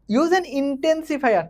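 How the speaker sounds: very slow, spelled-out reading of the instruction; slow dictation. Shown as a demonstration. Teacher reading the exercise instruction to students, very slow. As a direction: read the task aloud word by word. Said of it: "teacher reads the instruction".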